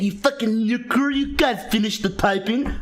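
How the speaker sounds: lightly voiced sneering teacher, a bit slow; a hint of a scornful teacher, dragged out; mocking teacher's thoughts. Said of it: "They're fucking thinking".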